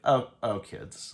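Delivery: put-on dry sarcastic sigh, kids breathed out; kinda sarcastic. Shown as a demonstration. Narrator sighing at the kids, dry and sarcastic. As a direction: roll your eyes at kids being kids. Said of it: "Like, kinda sarcastic".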